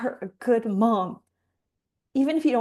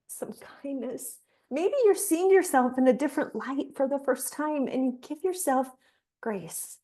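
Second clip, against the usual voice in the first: guided visualization. Acted. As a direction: talk them gently through the moment, like a meditation guide.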